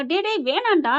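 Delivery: high urgent stop; alarmed call. Retold or imitated. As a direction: cry out to stop him. Mother-in-law stops son, alarmed. (பதறி தடுக்கும் குரல்)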